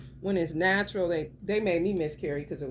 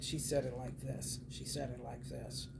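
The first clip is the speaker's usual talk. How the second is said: imitating Divine Femme; 5 semitones lower, 10 dB quieter than usual. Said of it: "How did she say it?".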